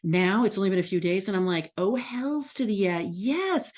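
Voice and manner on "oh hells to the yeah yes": pitched high, jubilant cheer; excited "hells to the yeah"; gleeful triumph. Retold or imitated. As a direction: crow over the good news. Her delighted reaction to numbers.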